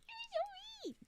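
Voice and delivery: high laughing protest; laughing mock hurt. Laughing at chat in mock protest.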